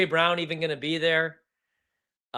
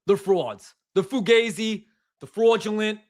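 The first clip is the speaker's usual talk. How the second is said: put-on New York accent; 4 dB louder than usual. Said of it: "Good accent".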